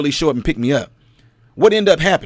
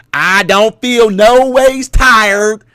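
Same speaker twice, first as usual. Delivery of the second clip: mock Hillary preaching; 3 semitones higher, 3 dB louder, much slower than usual. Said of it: "when Hillary Clinton said that".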